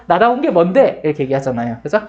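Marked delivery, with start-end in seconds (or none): 0.1-1.0 defiant retort. Acted. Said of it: "주인공이 그러죠".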